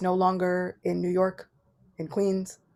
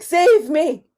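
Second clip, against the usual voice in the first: mock plea; 7 semitones higher, 8 dB louder than usual.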